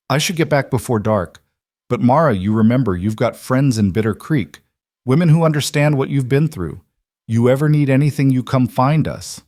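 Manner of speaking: a hint of a stern but kind neighbour; lightly voiced firm older woman. A narrator's reading. Older woman telling Mara she is divorced, lightly voiced firm. Fletcher's parting words.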